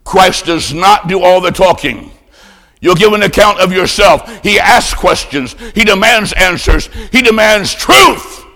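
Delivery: hammered short sentences climbing to a ringing last word; forceful preaching. Acted. Preacher telling believers of Christ's demands, forceful and building. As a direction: drive each statement home, building in force.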